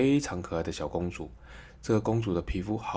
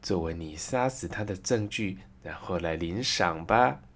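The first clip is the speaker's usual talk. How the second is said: commanding queen. Acted. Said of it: "新皇后命令宫廷里所有的武士说".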